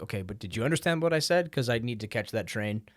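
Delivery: fast, a touch exasperated; mock-flustered tourist brushing off a correction; impatient traveler. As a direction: hurry them along, you have a train to catch. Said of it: "And you're like".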